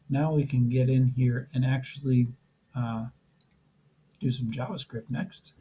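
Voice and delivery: losing voice, a bit rough; strained, worn-out voice; hoarse voice. Real, not acted. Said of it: "I seem to be losing my voice".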